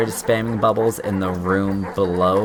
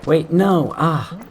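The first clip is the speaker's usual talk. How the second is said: high, loud alarmed cry; real panic mid-jump; sharp startled yell; panicked yell; 9 semitones higher, 4 dB louder, slower than usual. Real, not acted. Falling in the game.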